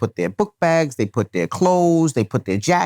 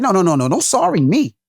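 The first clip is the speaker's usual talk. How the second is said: rising, higher indignant lecture; angry dad scolding; 5 semitones higher than usual. Retold or imitated. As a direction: tear into the kid for taking his stuff. Dad refusing daughter's apology.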